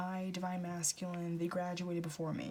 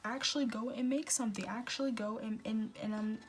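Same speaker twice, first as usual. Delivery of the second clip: fed-up friend ranting, voice pitched up; exasperated rant; 2 semitones higher than usual. Retold or imitated. A friend scolding their moping pal, fed-up rant. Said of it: "They're probably just like".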